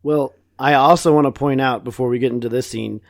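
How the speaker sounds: whispering. Real, not acted. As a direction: whisper it aside.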